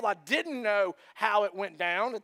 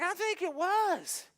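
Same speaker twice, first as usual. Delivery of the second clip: insisting neighbor; 9 semitones higher, slower than usual. Retold or imitated. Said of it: "the guy's like".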